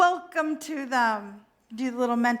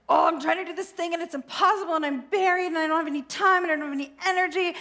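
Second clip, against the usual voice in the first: rushed, higher whining complaint; whiny overwhelmed self; 4 semitones higher, much faster than usual. Acted. Speaker's puppet self whines to God, fast and higher. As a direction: rattle off the excuses in a fast whine.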